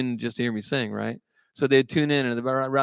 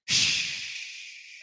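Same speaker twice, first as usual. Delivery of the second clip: a soft unvoiced hiss like air leaving a flat tire; 6 dB quieter than usual. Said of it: "He goes".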